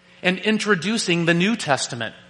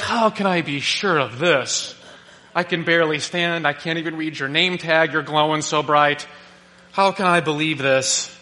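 bonehead numbskull. Retold or imitated. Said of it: "acts like a bonehead numbskull and goes".

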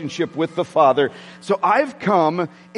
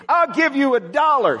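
high, pushed fan shout; sideline yelling; 7 semitones higher than usual. Retold or imitated. Father shouting to daughter Kristen on court, excited high call. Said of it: "this is what I used to do with Kristen".

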